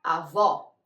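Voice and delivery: "avó" with a wide open final O, as in Portuguese; low, open stressed O in "avó". Shown as a demonstration. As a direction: say "avó" as ah-VAW. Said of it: "no existe ... la pronunciación".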